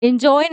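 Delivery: "एंजॉय" begun with a short "in"; mispronunciation. Shown as a demonstration. Teacher rejecting a common mistake, "एंजॉय" mispronounced in-joy. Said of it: "नहीं".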